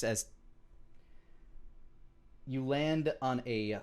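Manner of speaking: measured game master narration with long pauses; scene-setting narration. Acted. Game master describing the starry abyss to players, measured narration. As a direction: narrate with suspenseful gaps between phrases.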